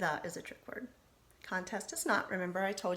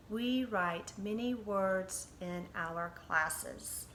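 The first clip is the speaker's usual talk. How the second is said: slow, each word spaced for writing; slow dictation; much slower than usual. Shown as a demonstration. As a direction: dictate it slowly to the class. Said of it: "write and mark".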